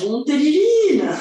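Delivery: amused teacher chuckling as she talks; laughing. Real, not acted. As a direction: laugh out the words. Teacher jokes about a hard roll-up.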